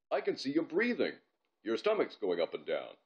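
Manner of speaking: different voice, factual; nerdy boy voice. Acted. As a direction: state it plainly like a know-it-all kid. Gazink observing Bob.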